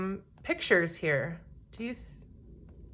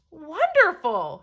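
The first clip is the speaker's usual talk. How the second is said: shouted; 4 semitones higher, slower than usual. Acted. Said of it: "shouted the travelers".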